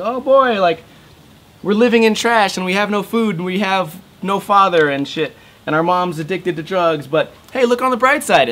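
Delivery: high, bright cartoon-kid voice, cheerfully ignoring the misery; squeaky upbeat kid brushing off awful news; mock chipper kid. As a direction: play a naive kid who insists everything's fine. Mocking the cartoon kids' optimism.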